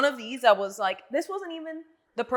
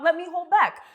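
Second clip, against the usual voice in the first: higher and louder, breaking into laughter; laughing while quoting; 8 semitones higher, 10 dB louder than usual. Retold or imitated. Lawyer laughing as she quotes the flirty caller. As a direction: quote him through laughter.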